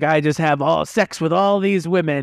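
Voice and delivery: lightly mocked boast, drawn out at the end; movie impression. Recalling a Naked Gun line to co-hosts, lightly hammed-up boast. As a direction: imitate a film character, stretching the last phrases. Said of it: "Naked Gun, where he's like".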